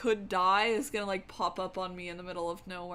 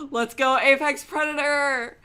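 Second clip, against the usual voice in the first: loud, higher rallying shout; cheer; 5 semitones higher, 11 dB louder than usual. Real, not acted. Streamer cheers chat on for Apex, loud.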